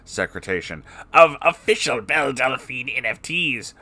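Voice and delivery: sleazy villain voice. Acted. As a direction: hawk it like a crooked salesman. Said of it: "Spamton G Spamton appeared on screen".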